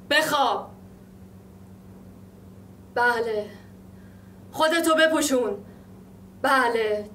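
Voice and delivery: escalating commands. Acted. Orders and obedient replies, escalating.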